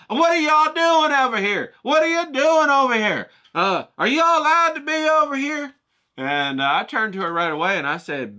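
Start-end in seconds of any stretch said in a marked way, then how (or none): 0.1-5.7 mocking Karen. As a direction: squawk it out like a nosy busybody. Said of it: "and she's like".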